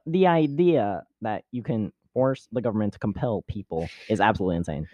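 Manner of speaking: Ben Shapiro impression. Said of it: "That's just Ben Shapiro".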